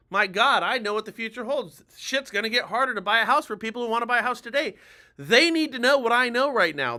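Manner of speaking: urgent, insistent pitch with punched phrases; emphatic urgency. Shown as a demonstration. Agent warning house buyers that rates are rising, emphatic and urgent. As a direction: sound the alarm, driving every phrase home. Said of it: "scream it emphatically at the top of your lungs".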